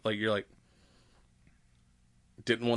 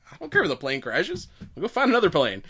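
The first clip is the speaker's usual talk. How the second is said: higher-pitched, breezy imitated dismissal; playful pretend nonchalance, pitched up; mock bravado; 6 semitones higher, 3 dB louder than usual. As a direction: shrug it off theatrically, ending in laughter. Acting immortal unbothered by crash.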